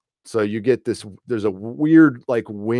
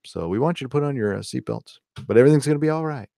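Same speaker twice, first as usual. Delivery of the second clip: lightly imitated calm pilot announcement, soft; mock captain reassuring passengers, half-hearted; pilot speak; 3 dB quieter, faster than usual. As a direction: passengers hear a mildly imitated soothing captain. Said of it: "they do it in pilot speak".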